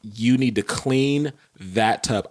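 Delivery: slow, measured, controlled fury; retold furious order. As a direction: space out every word as a stern order. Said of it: "I was so furious with her".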